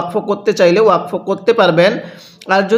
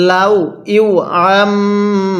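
Quran recitation. Shown as a demonstration. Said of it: "কিভাবে পড়ব?".

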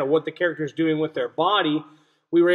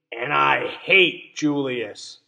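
slow spiteful reread; 3 semitones lower, much slower than usual. Shown as a demonstration. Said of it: "our author showed us".

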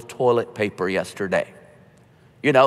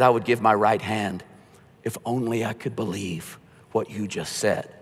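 wistful longing; 4 semitones lower, 6 dB quieter than usual. Retold or imitated. Agnostic in tears, longing.

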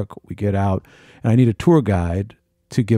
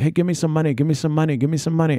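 imitated beggar; 6 semitones higher, faster than usual. Beggars pestering at Sphinx.

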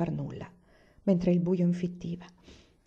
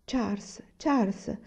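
gentle murmur; 3 semitones higher, slower than usual. Acted. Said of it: "mormorò mamma con dolcezza".

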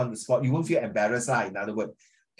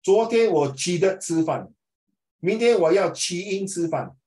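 mock Chinese with English endings, 的 and 英 stressed; wrong grammar example; 5 semitones higher, 4 dB louder than usual. Shown as a demonstration. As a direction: hit the added 的 in 去的 and 英 in 去英, louder and higher. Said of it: "You don't say".

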